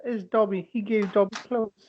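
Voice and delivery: very high house-elf voice, drawn out; elf impression. Settling a name debate by quoting the elf, high creature impression. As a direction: squeak it like a small creature.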